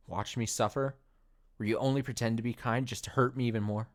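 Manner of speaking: lightly voiced betrayed girl, near tears; hurt, accusing Monika. Monika confronting Austin for deleting her, hurt and accusing.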